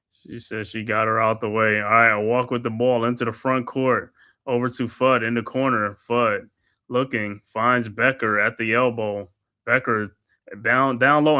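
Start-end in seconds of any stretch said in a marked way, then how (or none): 1.8-11.4 steady courtside commentator calling each pass; play-by-play call. Acted. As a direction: narrate the possession like a broadcaster. Calls the game play-by-play.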